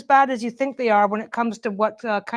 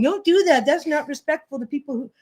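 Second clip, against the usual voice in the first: imitating her; 3 semitones higher than usual. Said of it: "she used to tell me".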